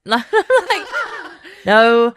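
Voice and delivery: real laugh through the words. Real, not acted. Laughs at the friends' question.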